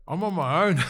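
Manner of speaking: bursting into laughter mid-line; laughing. Real, not acted. Telling the podcast host he was alone, laughing loudly. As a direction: laugh it out, embarrassed at himself.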